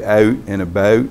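"Out" and "about" with Tidewater Virginia "oat" vowels; Tidewater Virginia accent. Retold or imitated. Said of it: "Tidewater, Virginia cousins say".

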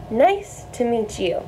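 slow, careful model phrase; slow teaching demo. Shown as a demonstration. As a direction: spell out Nice to meet you for the class. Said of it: "teaching you guys how to say".

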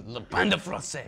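"Le pain de français" as nasal mock French; imitated French pronunciation. Host copying guest, mock French "Le pain de français". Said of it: "if you wanted to say it French".

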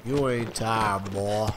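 lightly voiced stern master, slow; a hint of a harsh overseer; mock stern master demanding; old slave master. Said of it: "I'll be like an old slave master".

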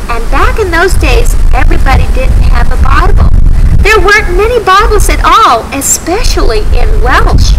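put-on gentle storyteller for kids; reading to children. A narrator's reading. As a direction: tell it like a Sunday school story. Telling Bible story to children.

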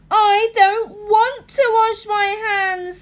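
put-on high whiny crying little girl; cartoon princess. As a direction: whine it close to tears. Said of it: "said the little princess".

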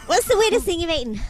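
high squeaky helium voice. Real, not acted. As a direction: talk after a big helium hit. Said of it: "I took a really big hit".

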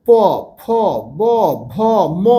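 each letter spaced out, lips pressed and released; careful lip sounds. Shown as a demonstration. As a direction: sound out প, ফ, ব, ভ, ম one by one, showing the lips. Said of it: "ঠোঁটগুলো দেখো".

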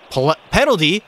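a sudden high, outraged "penalty?"; can't believe the ref called it; shocked disbelief. Real, not acted.

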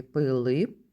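final П of "Пилип" popped separately; low-pitched "Пилип" with a released final П; last sound singled out. Shown as a demonstration. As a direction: finish "Пилип" on a crisp, separate П. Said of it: "І останній звук у слові".

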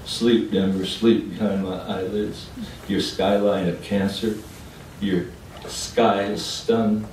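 measured verse with drawn-out endings; poem recital. Acted. Poet bidding Denver sleep, measured recital. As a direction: recite it as an ode.

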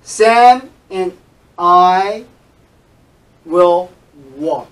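and said as a light n, spoken loud and word by word; reduced and. Shown as a demonstration. Teacher shows students the reduced and sound. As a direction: say Sam and as sam n, loud and slow. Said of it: "你要读它n，n".

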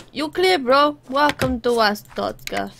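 lightly voiced inspector with put-on accent; border inspector. Inspector welcoming a cleared traveller, mock official.

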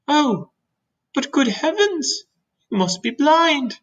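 high, slow disbelieving outburst; exasperated James. Acted. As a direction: exclaim in disbelief, pitched well up.

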